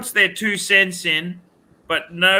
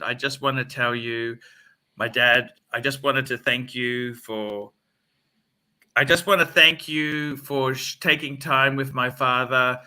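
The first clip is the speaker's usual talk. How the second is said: lower, measured courteous phone manner; mock polite thanks; 3 semitones lower than usual. Customer turns down Mazda salesman on the phone, mock polite.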